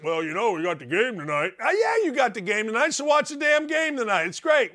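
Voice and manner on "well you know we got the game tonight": lower, mumbled couch-potato excuse; lazy husband excuse. Retold or imitated. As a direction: brush her off like a guy who only cares about the game. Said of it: "Don't be just".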